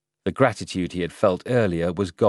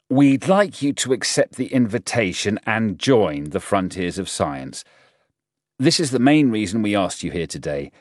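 lightly voiced general, firm and somewhat raised; General Chung; 4 semitones higher, 5 dB louder than usual. General recruiting the professor to join the group, lightly voiced authority. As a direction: make the request with a touch of command.

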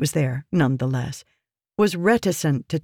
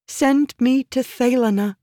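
high, insistent woman's plea; calculated plea; 9 semitones higher than usual. A narrator's reading. Woman asking to be sent to safety, calculated pleading. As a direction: cut in pleading, with purpose. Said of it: "cut him off with a calculated plea".

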